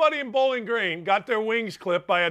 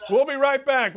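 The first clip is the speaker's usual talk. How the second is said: normal talking voice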